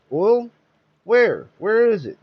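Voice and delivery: high, loud excited cries; excited crowd. A narrator's reading. Townsfolk erupting at news of oil, excited shouts.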